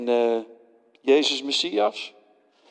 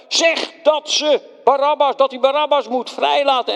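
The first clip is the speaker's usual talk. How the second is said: persuading leaders; 10 semitones higher, 4 dB louder than usual. Acted.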